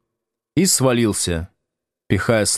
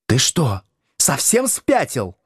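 higher, slowed outraged demand; angry wife; 5 semitones higher, slower than usual. Acted. Надя набрасывается на мужа, возмущённо и высоко. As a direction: lay into her husband. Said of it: "налетела на Слушкина Надя".

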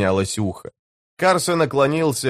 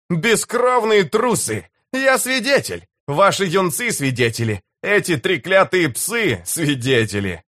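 roared challenge; 7 semitones higher than usual. A narrator's reading. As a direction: hurl out the challenge, drawing out the words. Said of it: "Проревев слова вызова на бой". (гневный протяжный рёв)

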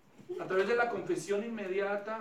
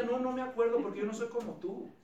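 lightly voiced God; 3 semitones higher, 6 dB louder than usual. God's imagined answer.

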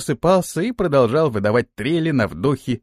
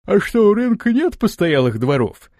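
yawning; 7 semitones higher than usual. A narrator's reading. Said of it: "зевая и прикрывая рот ладонью".

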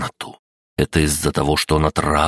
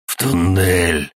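raspy whisper; 2 semitones higher, slower than usual. Acted. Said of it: "прохрипел он".

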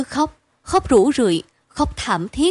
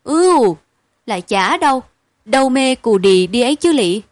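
put-on louder, pained girl's voice; rueful wince; 5 dB louder than usual. Nhớn admitting the beatings hurt, louder with a wince. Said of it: "Cô nhớn xích xoa".

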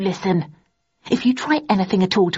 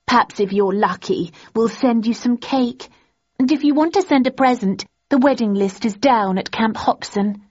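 gloating; 5 semitones higher than usual. A narrator's reading. Daisy gloating to Thursday about Landon, higher. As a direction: rub it in sweetly.

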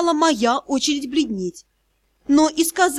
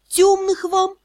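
timid higher-pitched greeting; nervous babble; 6 semitones higher, slower than usual. A narrator's reading. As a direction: stammer out a meek hello. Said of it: "пролепетала я".

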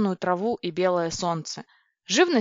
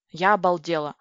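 usual speaking voice

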